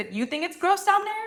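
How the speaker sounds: stressed you, lifted high in pitch. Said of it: "I think it's gross down there".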